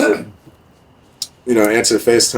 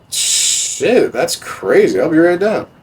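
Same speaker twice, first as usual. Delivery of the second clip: eager mock reply; 9 semitones higher, slower than usual. Own eager reply, retold.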